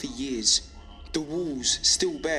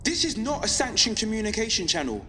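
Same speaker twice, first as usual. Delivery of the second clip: impassioned, slightly raised-pitch radio address; defiant broadcast; 4 semitones higher than usual. Acted. Pirate broadcaster rallying listeners against government control, defiant. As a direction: press each point with steady conviction.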